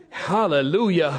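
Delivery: slow, drawn-out hallelujah; relieved praise. A narrator's reading. Rider saved from cliff, slow relieved praise. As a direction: let it out slowly in relief. Relieved thanks that restarts the donkey.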